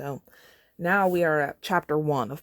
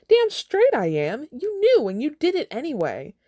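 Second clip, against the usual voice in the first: furious yell; 12 semitones higher, 5 dB louder than usual. Acted. Katniss yelling at Peeta for his confession, furious yell. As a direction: explode at him.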